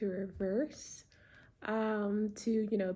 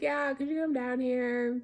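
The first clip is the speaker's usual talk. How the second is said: slightly raised calling voice; 4 semitones higher, 3 dB louder than usual. Retold or imitated. Driver answering puzzled neighbour upstairs, mildly calling up. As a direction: repeat the request up to the window. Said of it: "call up to them".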